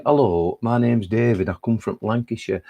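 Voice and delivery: lightly put-on generic Lancashire accent. Shown as a demonstration. Poet showing how locals introduce themselves, Lancashire accent. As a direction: introduce yourself in broad Lancashire vowels. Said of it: "if you come from Lancashire, you say".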